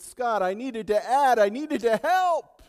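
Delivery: loud, high, pleading shout with help slowed; retold shout. Pastor shouting at Scott that he needed to help, loud pleading yell. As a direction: cry out that you needed to help.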